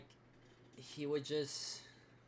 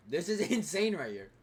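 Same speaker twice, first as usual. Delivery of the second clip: incredulous outburst; 4 semitones higher, 7 dB louder than usual. Real, not acted. Outraged disbelief at the clip.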